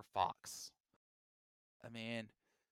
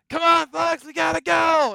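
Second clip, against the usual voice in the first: excited sidekick voice; 13 semitones higher, 14 dB louder than usual. Retold or imitated. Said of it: "it's like".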